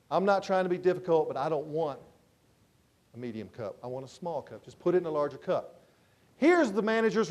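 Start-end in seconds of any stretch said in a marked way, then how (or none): 0.1-5.8 upset customer. Retold or imitated. Upset salesman to the assistant manager, tightly restrained. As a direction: imitate a customer holding back his irritation. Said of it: "now the guy gets upset".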